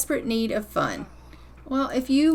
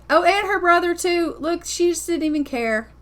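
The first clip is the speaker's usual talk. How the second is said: high, louder burst of surprise; surprised; 7 semitones higher, 5 dB louder than usual. Real, not acted. Gamer surprised Tegan sneaks past her brother, loud high exclamation. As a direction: caught off guard, laughing disbelief.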